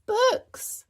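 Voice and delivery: high, loud eager answer; excited cry. A narrator's reading. Peppa eagerly answering the teacher's question, high and loud. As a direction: blurt it out eagerly. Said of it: "cried Peppa".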